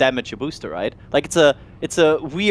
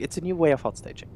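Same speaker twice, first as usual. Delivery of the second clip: dramatic trailer-title read; video title voice; 6 dB quieter, faster than usual. Shown as a demonstration. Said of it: "That's a, that's a video title there, like, in curved letters".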